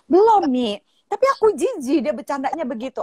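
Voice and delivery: high imitated schoolgirl protest; disgusted daughter. Daughter protests to mother about boy's joke, imitated high whine. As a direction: whine it to Mum, starting high and loud.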